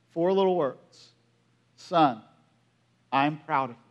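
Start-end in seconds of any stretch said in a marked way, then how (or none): 1.8-3.8 low, softened, heartfelt reading; hushed, moved retelling; tender quoted praise. Retold or imitated. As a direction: quote a father's words gently, with pauses. Father's treasured email words read out.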